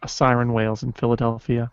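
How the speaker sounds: noir voice-over narration; hard-boiled detective narrator. Acted. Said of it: "that's the beginning of a noir voice".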